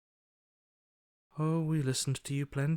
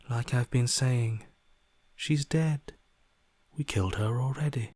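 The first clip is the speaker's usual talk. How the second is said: insistent; 5 dB louder than usual. Acted. Insisting, annoyed.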